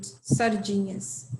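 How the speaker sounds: "sardinhas" said slowly, each syllable clear; slow cute diminutive. Shown as a demonstration. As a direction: give "sardinhas" a slow, gentle read. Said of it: "little more cute".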